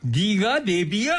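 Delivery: slowly rising mock outrage; mock anger. Shown as a demonstration. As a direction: act out scolding the sat-nav. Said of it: "화 좀 내주세요".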